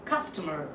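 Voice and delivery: customer with a rolled American R at the end; US pronunciation. Shown as a demonstration. Teacher repeats after the dictionary, US pronunciation. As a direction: say customer the US way, R sounded. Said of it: "the U S way".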